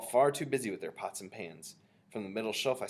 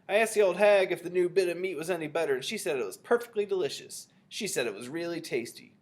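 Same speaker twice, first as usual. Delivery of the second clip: loud, higher announcement, easing off; shouted; 7 semitones higher, 5 dB louder than usual. A narrator's reading. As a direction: spread the news to the kitchen. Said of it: "he shouted".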